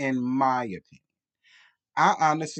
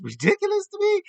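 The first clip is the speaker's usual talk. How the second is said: high, squeaky disbelief; incredulous squeal; 6 dB louder than usual. Real, not acted.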